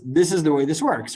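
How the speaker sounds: firm declaration with an exclamation point; emphatic, declarative quote; exclamatory statement. Retold or imitated. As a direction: state it as settled, no question in it. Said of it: "not as a question mark, he says this with a, um, exclamation point".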